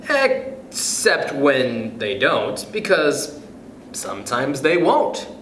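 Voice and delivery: lilting, rhythmic picture-book read; reading aloud to kids. Acted. Reading Oh, the Places You'll Go to listeners, rhythmic storybook voice. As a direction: bounce through the rhymes like a bedtime story.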